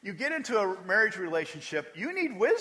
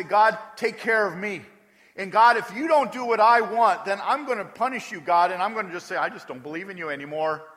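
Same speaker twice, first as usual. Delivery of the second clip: loud, entitled demand at God; mock demanding prayer; 3 semitones higher, 7 dB louder than usual. Preacher mocking believers who make loud demands of God. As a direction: play the spoiled believer bargaining. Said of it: "we look at God and we say".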